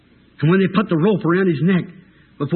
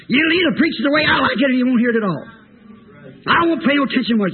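fast, raised, stubborn outburst; defiant refusal; 4 semitones higher, much faster than usual. Acted. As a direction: refuse to hear another word. Acts out defiant prisoner refusing.

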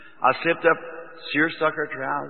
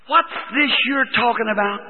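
stern questioning; 6 semitones higher than usual. Retold or imitated. Mother-in-law confronts him.

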